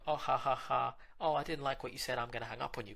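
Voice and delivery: loud mock-laughing tease; hammed-up girl teasing, laughing loudly; playful girlfriend. Girlfriend jokingly threatens to hang up, loud and laughing. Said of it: "you know".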